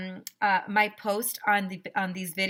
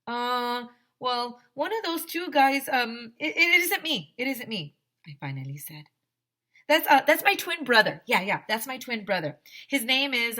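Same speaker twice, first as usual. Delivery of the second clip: put-on nervous kid; 3 semitones higher than usual. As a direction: make up the lie on the spot, fumbling. AJ inventing a twin, stammering.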